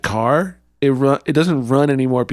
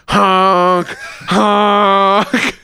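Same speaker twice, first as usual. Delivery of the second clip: silly clown; 6 semitones higher, 4 dB louder than usual. Pretend. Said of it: "And I'm just like".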